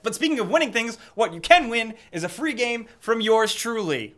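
lightly voiced game show host. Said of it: "Why am I talking like a game show host?".

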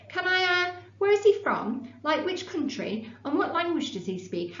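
high, tumbling eager questions; girl too excited to wait, questioning her teacher; bursting with excitement. A narrator's reading.

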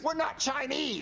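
indignant denial. Acted. Denies accusation, indignant.

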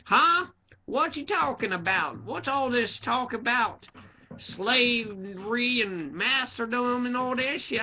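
high, slow, dopey put-on voice; mocking imitation of someone who doesn't get it; mock clueless hillbilly. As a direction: drag it out high like a baffled simpleton. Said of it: "People I talked about was like".

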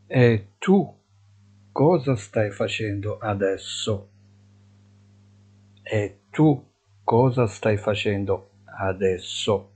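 slow, deliberate Italian model phrase; slow teaching model. Shown as a demonstration. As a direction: spell it out slowly for learners. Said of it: "teacher models slowly".

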